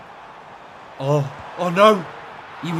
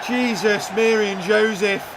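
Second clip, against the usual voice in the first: exasperated exclamation; 7 semitones higher, 4 dB louder than usual. Real, not acted. Reacting to the miss.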